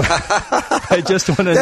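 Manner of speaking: cracking up mid-sentence; laughing. Real, not acted. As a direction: say it through a laugh. Cracking up after movie impression.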